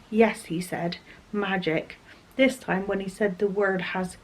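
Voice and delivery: reading a novel aloud, steady; story narration. A narrator's reading. Vlogger reads a fantasy novel passage to her viewers, measured narration.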